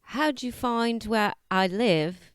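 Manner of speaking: attempted, put-on New Zealand accent. Urged to try it, the speaker reads a scene line in a New Zealand accent. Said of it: "So you have to do New Zealand accent too".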